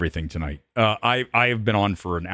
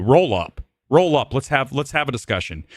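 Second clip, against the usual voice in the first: taunting challenge; 3 semitones higher than usual. Real, not acted. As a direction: dare him to show up.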